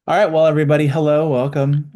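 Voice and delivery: loud, upbeat radio host opener. Real, not acted. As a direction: greet them like a radio DJ. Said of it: "You sound like a radio host".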